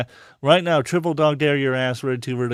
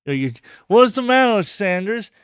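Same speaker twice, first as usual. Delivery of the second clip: taunting; 7 semitones higher than usual. Real, not acted. Taunting someone to call Lyle.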